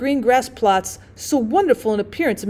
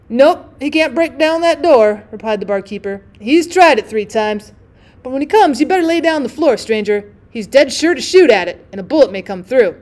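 1 dry barkeeper; 5 dB louder than usual. Acted. Barkeeper answers the drummer.

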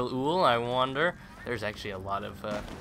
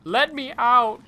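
loud, high playful demand; mock-trapped yell; 12 semitones higher, 10 dB louder, slower than usual. Gamer stuck at a window, mock-trapped yell.

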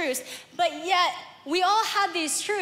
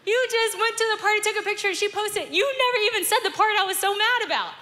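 higher, pushing, exasperated questions; exasperated rant; 5 semitones higher than usual. Retold or imitated. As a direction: vent how absurd this is.

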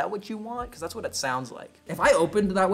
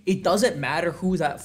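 loud rant; 3 semitones higher, 7 dB louder than usual. Pretend. Ranting about parents.

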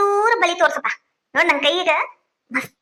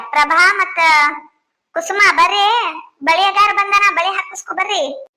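higher-pitched summons to the neighbours; calling out; 3 semitones higher than usual. Acted. Telling neighbours the bangle seller has come, calling out. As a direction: call the women over eagerly.

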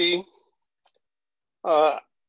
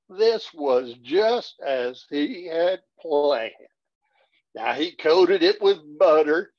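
cowboy poetry recitation; slower than usual. Acted.

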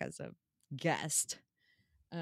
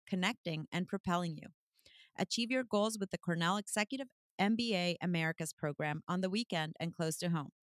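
even, measured sponsor read. Acted. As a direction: read out the sponsor copy evenly. Reads the sponsor ad.

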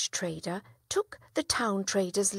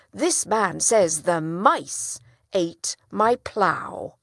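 clever villager; 2 semitones higher, 6 dB louder than usual. Acted. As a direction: drive the logic home to the judge. Villager's clever argument in court.

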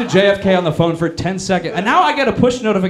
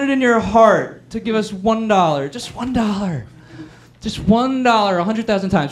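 higher, whiny pleading appeal; desperate fundraiser; 3 semitones higher than usual. Acted. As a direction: beg like a sad donation drive. Democrats' desperate fundraising email.

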